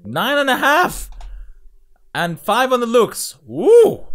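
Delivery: hyped reactor yelling the score; excited cheering. Real, not acted. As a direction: cheer it like a game-show host.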